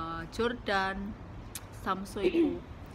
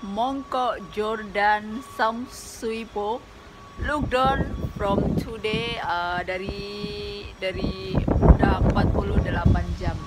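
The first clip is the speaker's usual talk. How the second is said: loud, raised voice against the wind; shouting over wind; 6 dB louder, slower than usual. Real, not acted. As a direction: call it out over the gusts. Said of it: "ini anginnya gede banget".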